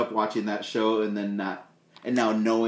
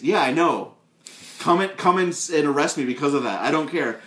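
high, loud mocking operator voice; 5 semitones higher, 3 dB louder than usual. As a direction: sneer it out in a high voice.

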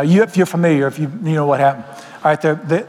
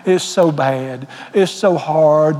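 mock whining; much slower than usual. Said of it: "whining and moaning".

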